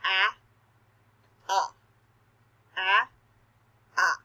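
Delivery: "ah" four times, open and clear; repeated ah sounds. Shown as a demonstration. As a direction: chant "ah, ah, ah, ah" with the mouth wide. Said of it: "pay attention to what your mouth does".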